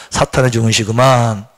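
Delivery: slow low repeat; slow calm recitation; repeat after me. Shown as a demonstration. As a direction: echo slowly for the congregation. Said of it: "따라합시다".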